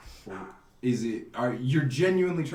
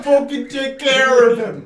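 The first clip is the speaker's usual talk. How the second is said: put-on Italian mobster accent; 8 semitones higher, 9 dB louder, slower than usual. GM voicing Italian NPC order.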